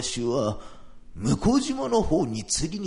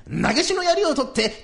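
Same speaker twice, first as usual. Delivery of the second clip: 槍 declaimed loud and higher with a falling finish; heroic declaiming; 12 semitones higher, 5 dB louder than usual. Retold or imitated. Old man boasts he grabbed the spear. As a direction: boom out 投げしの槍を取って like a warrior. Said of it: "ちょ、ちょっと待ってくださいよ".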